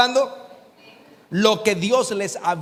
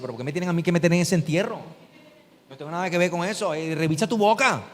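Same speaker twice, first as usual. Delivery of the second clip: devil protesting; 2 semitones lower, faster than usual. Retold or imitated. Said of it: "El diablo dice".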